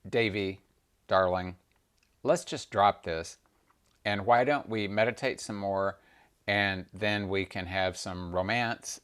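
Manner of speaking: soft, coaxing husband; calm her down gently; a quiet, tender Shiva; soothing Shiva. Acted. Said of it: "And Shiva said".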